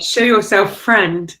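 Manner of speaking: milder, friendlier version of the challenge. Acted. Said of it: "should have been a bit softer and said".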